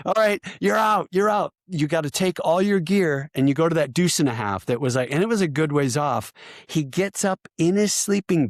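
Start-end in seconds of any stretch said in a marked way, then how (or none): 0.1-3.3 high-pitched mock dismissal; imitated stern order. Cadre sending the soldier away, imitated stern order. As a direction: imitate an instructor throwing someone out, voice pitched up.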